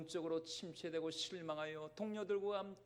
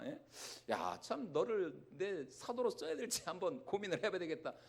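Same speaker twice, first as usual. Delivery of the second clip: mock scolding. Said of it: "예수님이 이런 말씀 안 하셨어요".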